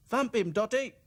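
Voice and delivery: high, loud chirpy call; eager doll cries. A narrator's reading. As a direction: egg her on. Dolls cheering the fix.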